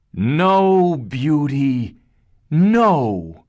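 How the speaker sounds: high, loud protest; brothers' loud cry. A narrator's reading. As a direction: shout no to stop her. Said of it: "cried her brothers".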